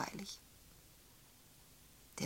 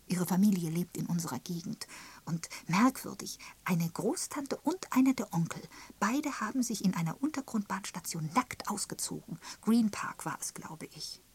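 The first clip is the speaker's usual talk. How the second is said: lightly voiced gossip, pitched up in places; gossiping Miss Prescott; 4 semitones higher, 3 dB louder than usual. Miss Prescott telling of the relatives' scandal, gossipy. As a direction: pass on the family scandal with relish.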